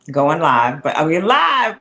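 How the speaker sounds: loud, eager check if the stream is live; excited. Real, not acted. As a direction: call it out, thrilled to be on air. Starting a livestream, checking.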